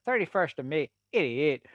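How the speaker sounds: lightly imitated Northern Irish accent; eighty-eight as "idiot", Northern Irish style. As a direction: give the birth date in a Northern Irish accent. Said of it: "eighty-eight in Northern Irish are idiot".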